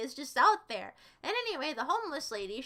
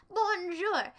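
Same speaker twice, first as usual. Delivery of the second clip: mock French; 4 semitones higher than usual. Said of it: "You're pronouncing my last name again".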